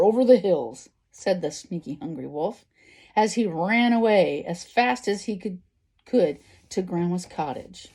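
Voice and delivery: expressive storybook narration; story reading to children. A narrator's reading. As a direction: read it out like a picture book. Reads a story aloud.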